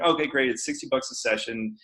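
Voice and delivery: mock indifferent salesman, falling away at the end; brusque sales pitch. Acts out his brusque sales pitch.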